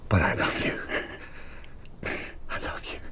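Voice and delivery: soft, whispered declaration; hushed, intimate reassurance; tender whisper. Acted. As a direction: whisper it lovingly after the storm. Tender declaration after quarrel.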